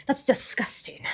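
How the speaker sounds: unvoiced aside; whispered aside. Real, not acted. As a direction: whisper it to the camera. Aside on raw bread.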